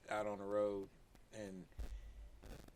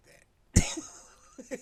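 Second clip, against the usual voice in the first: breathy, odd-voiced take on the Baltimore accent; mock Baltimore accent demo; 9 dB louder than usual. Shown as a demonstration. Friends mocking the Baltimore accent, squeaky mock take. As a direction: show how gross the accent sounds. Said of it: "how do you say that?".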